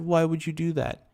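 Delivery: mock cowering whimper, high and soft.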